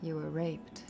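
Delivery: a touch of gritty film noir detective. Acted. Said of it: "I'm enjoying this noir voice".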